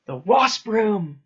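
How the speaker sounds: loud, high, drawn-out order; angry shout. A narrator's reading. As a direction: shout it as an enraged teacher's command. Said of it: "he shouted at her".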